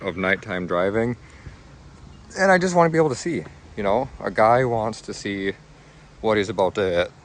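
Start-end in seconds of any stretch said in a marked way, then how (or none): 2.4-7.1 talking through hiccups; hiccuping between words. Real, not acted. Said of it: "got the hiccups".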